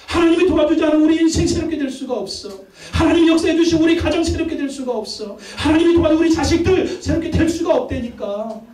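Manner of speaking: high, sustained pulpit intensity; impassioned preaching. Real, not acted. Pastor pleads that only God renews families, high impassioned preaching. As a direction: insist urgently in a repeated chant-like cadence.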